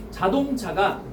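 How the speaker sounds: measured dictation with long pauses between phrases. Real, not acted. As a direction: dictate it phrase by phrase for note-takers. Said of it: "불러줄게". (받아쓰도록 끊어서 불러주기)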